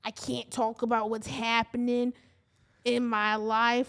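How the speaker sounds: slow mock Boston accent. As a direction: imitate her Boston accent, drawing it out. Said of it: "Do it in the Boston accent".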